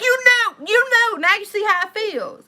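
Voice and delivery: high, loud, accusing retort; retold snapping. Wife snaps back at husband over his family, high and loud. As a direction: throw it back at him sharply. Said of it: "I was like".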